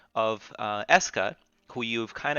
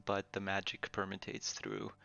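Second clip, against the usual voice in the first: ominous sword voice; 9 dB quieter than usual. Acted. Sword spirit speaks.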